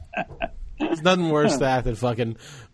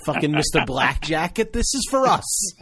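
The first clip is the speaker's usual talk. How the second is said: retold angry rant; 7 semitones higher than usual. Telling off the know-it-all at the cheap table, high mock rant.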